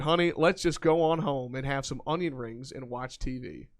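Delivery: put-on reading a lyric in a country accent; drawling country accent, lightly done. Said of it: "apparently I need to try and do my best country accent for this".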